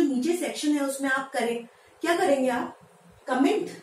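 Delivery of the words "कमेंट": "कमेंट" as kuh-MENT; wrong pronunciation. Shown as a demonstration. Teacher voicing learners' answer, mispronounced. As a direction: answer "कमेंट" with a weak uh first vowel. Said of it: "जी नहीं, इसे कमेंट नहीं".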